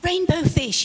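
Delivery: high little fish voice calling; small, eager fish calling out. Acted. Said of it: "he called".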